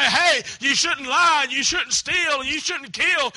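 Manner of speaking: slow, loud hellfire warning; a pastor shouting sins at the congregation; mock preacher shout. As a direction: hammer each sin like a shouting pastor. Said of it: "pastor to scream and shout".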